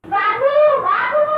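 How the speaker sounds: put-on child calling out. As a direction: call out to father. (ऊँची आवाज़ में पुकारना)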